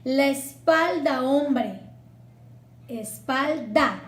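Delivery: "la espalda hombre" slow, with "espalda" running straight into "hombre"; sinalefa with silent H. Shown as a demonstration. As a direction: run "espalda" into "hombre" slowly.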